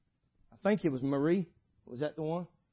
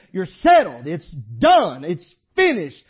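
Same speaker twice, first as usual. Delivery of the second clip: settled; 10 dB louder, slower than usual. Acted. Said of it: "he might say".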